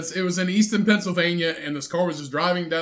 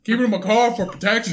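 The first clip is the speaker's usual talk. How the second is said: put-on Southern accent; 4 semitones higher, 4 dB louder than usual. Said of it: "Now he sounds like he's from North Carolina".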